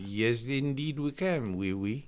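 light, slow attempt at a French accent. Shown as a demonstration. Well-traveled man shows off his accents to the hosts, French accent. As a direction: say it slowly in a half-hearted French accent. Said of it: "that is my French accent".

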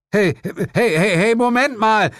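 high, stammered, shouted objection; loud protest. A narrator's reading. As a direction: call after them in protest. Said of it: "protestierte ich". (laut protestieren)

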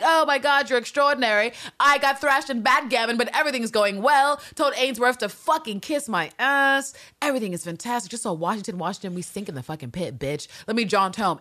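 high, bubbly rush of news; gushing excitement. Retold or imitated. Aunt gushing about her jaunting morning, high and giddy. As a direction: gush it all out to her friend. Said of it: "Miss Parkhill's like".

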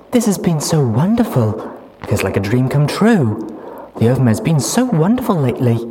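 high, loud, gushing mare; dreamy mare voice. Acted. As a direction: gush like you're in love. Duct Tape dreamy after lovemaking.

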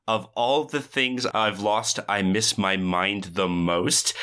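slow, drawn-out mock incredulous read. Teacher reading the board's quote aloud, incredulous. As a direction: read it aloud slowly, as if in mild disbelief. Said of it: "in an incredulous tone reads off".

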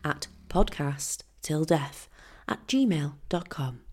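slow, low TV voice-over; MasterChef narrator. Shown as a demonstration. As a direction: read it like a cooking show voice-over. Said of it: "Now I sound like I am on MasterChef".

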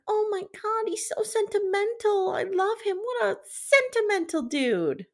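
gushing. Retold or imitated. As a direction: swoon over him. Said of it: "Sandra's like".

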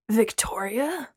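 slow, puzzled whisper; a confused hushed question; befuddled. Acted. Braylon puzzled by the wrong name, whispering.

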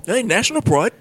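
put-on loose, rough Australian accent. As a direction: play an indignant Aussie, badly accented. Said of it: "just going with this accent".

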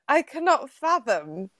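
slow, lightly put-on grand diction; mock drunken formality; tipsy over-proper speech. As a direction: labour each word like a drunk feigning sobriety. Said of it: "Listen to the way she's talking".

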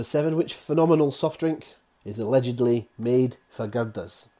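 mock Scottish accent on the slogan; a hammed-up Scottish lilt on made for girders; bad Scottish accent. Quiz host reading the Irn-Bru slogan, bad Scottish accent. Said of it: "with my bad accent there".

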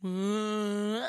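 a steady cow moo. Pretend. Trying the cow again, steady moo. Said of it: "I'll do an impression".

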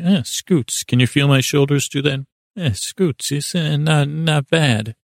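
a touch of Godfather tough guy; mild Godfather impression; hint of a Godfather. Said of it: "sounded a little bit like a Godfather".

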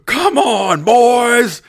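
very high, loud, hammed-up challenge; old-time boxer voice. Heckler facing five comedians, hammed-up old-time fighter taunt. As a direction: call them out like a cartoon prizefighter. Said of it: "like a thirties style pugilist".

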